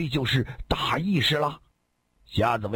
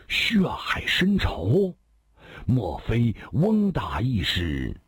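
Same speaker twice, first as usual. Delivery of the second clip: slow, drawn-out questioning; hushed astonishment; much slower than usual. Acted. Storyteller guesses at the blood feud, slow hushed astonishment. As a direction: stretch the words out as the realisation dawns.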